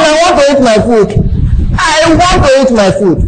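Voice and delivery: put-on high, insistent child asking for food; mild mock childish demand; child's whine. Shown as a demonstration. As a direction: nag like a hungry little son. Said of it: "Be like my son".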